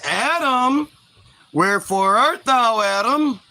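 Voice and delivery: mock-grand calling out; lightly voiced God. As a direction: call for someone with a hint of sing-song. God calls out for Adam.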